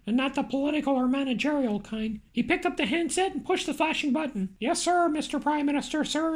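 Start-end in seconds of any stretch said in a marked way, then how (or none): 4.6-6.3 stammering. Acted. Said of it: "Andy stammered".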